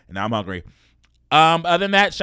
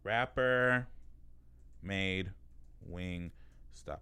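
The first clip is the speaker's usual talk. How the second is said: typing search aloud; 5 semitones lower, 14 dB quieter, much slower than usual. Real, not acted. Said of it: "I'm gonna Google".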